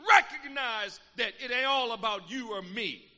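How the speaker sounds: loud, rising preacher's refrain; preaching at full force. Acted. Preacher hammering the scripture at the congregation, loud and building.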